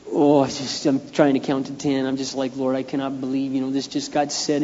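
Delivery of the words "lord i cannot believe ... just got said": frustrated prayer. Retold or imitated.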